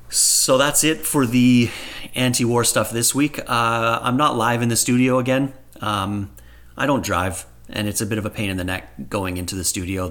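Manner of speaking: roomy laptop recording echo; echoey home recording, not studio. Real, not acted. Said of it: "that's why I sound a bit echoey".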